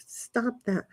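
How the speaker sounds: voiceless whisper; whispered hush. Real, not acted. Telling someone nearby to stop, in a whisper. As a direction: shush them without any voice.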